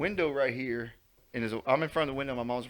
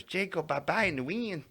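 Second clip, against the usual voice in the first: higher-pitched imitation of a woodland recluse; Nell; 5 semitones higher, 4 dB quieter than usual. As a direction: imitate odd, barely verbal speech. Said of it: "That's how she talks".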